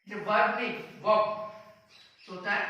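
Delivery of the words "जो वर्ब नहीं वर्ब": वर्ब said short as "vurb"; teacher correcting वर्ब; correct pronunciation. Shown as a demonstration. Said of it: "आपको बोलने का ढंग देखना पड़ेगा".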